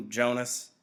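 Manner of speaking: hollow, anguished laugh into the name; a sad, empty chuckle before speaking; rueful empty laugh. A narrator's reading. The giver answering Jonas's sarcasm, rueful empty laugh. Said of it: "a rueful, anguished, empty laugh".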